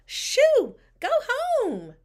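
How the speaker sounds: very high, loud shooing; high-pitched yell of a scolding lunch lady. A narrator's reading. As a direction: shoo the intruder off loudly. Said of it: "one of the lunch ladies yelled".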